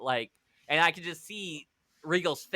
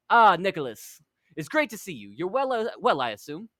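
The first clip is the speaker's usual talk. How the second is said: Regal greeting in a lightly put-on British accent; a hint of a polite English gentleman; mildly British, overly polite welcome; 3 semitones higher than usual. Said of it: "You don't have to do the accent".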